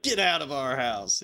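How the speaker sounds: mock angry. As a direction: imitate someone fed up in an argument. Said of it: "people get more and more fucking mad".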